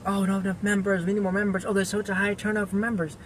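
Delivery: mock-whining imitation of the station crew; mocking complaint. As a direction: parody them moaning about members, a bit fast. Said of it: "they always complain".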